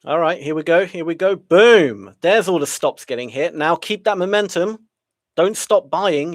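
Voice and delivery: loud excited cheering as the price breaks out; yelling at a horse race. Real, not acted. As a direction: urge it on like a racing fan.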